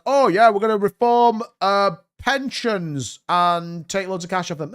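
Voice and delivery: high-pitched sarcastic impersonation; mocking politician. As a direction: send up the cheery official line. Mocks politicians announcing pension cuts.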